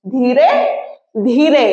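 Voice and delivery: first धीरे rising, second धीरे falling; repeated word. Shown as a demonstration. Teacher shows a repeated word to students. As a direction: say धीरे up, then धीरे down. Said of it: "देखो repeat हो रहा है".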